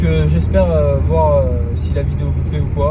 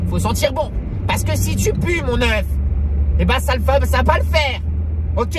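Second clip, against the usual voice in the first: high put-on voice; 7 semitones higher than usual. High put-on voice lecturing on smell.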